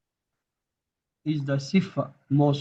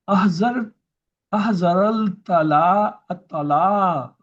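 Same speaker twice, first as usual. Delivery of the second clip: reading an example; 2 semitones higher, 4 dB louder than usual. Shown as a demonstration. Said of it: "Now let's have the example".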